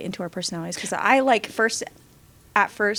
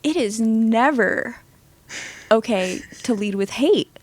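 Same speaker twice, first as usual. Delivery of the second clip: firm stand; 2 semitones higher, 5 dB louder than usual. Retold or imitated. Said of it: "So I stand up and I'm like".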